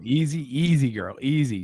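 calm it down like a jittery horse; easy, easy, gently settling; soothing a scared dog. Pretend. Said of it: "a notch here".

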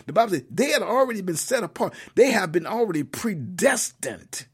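emphatic, rising sermon delivery; preaching. Real, not acted. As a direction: drive the scripture home like a preacher. Preaches a Bible message.

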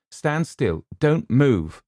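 high, loud, urgent warning; tense plea to keep her from moving; frightened. Acted. Luke, frightened, warns Eleanor on the tower stairs. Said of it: "And he sounded frightened".

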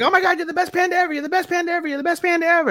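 very high, fast, squealing praise; overjoyed Tensho. Retold or imitated. Tensho thanking the panda for money, very high and giddy. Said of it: "she's like".

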